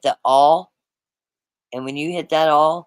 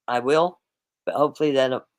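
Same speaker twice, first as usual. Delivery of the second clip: hiccups. Real, not acted. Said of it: "I got the hiccups for some reason".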